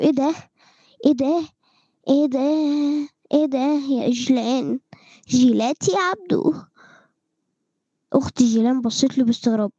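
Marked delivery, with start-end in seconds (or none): 0.0-6.5 puzzled surprise. Acted.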